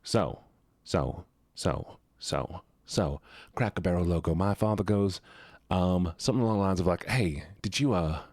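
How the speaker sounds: casual storytelling in a Southern voice; lightly played Southern accent; put-on Southern accent. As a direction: chat along with a put-on Southern twang. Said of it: "I'm gonna go back to the Southern voice".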